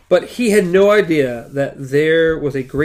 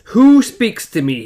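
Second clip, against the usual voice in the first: louder, higher, slowed demand; shouted challenge; 7 semitones higher, 6 dB louder than usual. A narrator's reading. Roland shouts at the unseen voice, louder and higher. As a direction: shout it into the empty room. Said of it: "he shouted".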